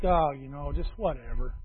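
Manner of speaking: dismissive whatever. Retold or imitated. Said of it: "That was my, my catchphrase".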